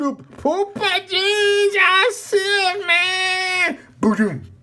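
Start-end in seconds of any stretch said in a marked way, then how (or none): 0.4-3.8 panicked prayer. Real, not acted. Praying in panic.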